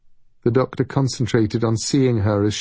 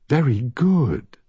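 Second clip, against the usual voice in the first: slow, condescending politician; lightly voiced stern Prime Minister; Margaret Thatcher voice; 4 semitones higher, slower than usual. A narrator's reading. Thatcher approves.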